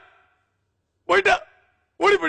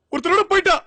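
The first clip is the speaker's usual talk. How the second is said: mock wail; 5 semitones higher, faster than usual. Jilted man wails she left.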